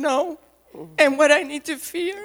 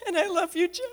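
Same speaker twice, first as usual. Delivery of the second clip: softer, crying; a tender tearful declaration; 7 dB quieter, faster than usual. Real, not acted. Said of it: "And I'm gonna cry".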